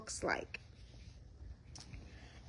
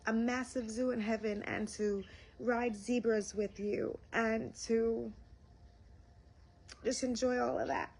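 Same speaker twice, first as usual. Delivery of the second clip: real welling-up emotion, higher pitch; getting emotional; 4 semitones higher than usual. Real, not acted. Retelling a prayer to Jesus, emotional. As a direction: overcome by how beautiful it was, pausing to gather yourself. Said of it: "I'm getting so emotional".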